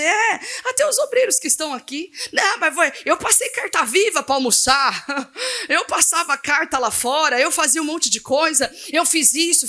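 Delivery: mimicking the old pastors, half laughing; laughing mock old pastor. Pastor mocks old pastors to the youth, laughing. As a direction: tease the old-timers with a laughing put-on voice. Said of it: "Eu falei pra eles".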